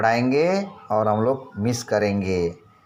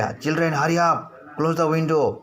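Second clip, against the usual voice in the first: calling out; 5 semitones higher, much slower than usual. Acted. Teacher voices a character calling out.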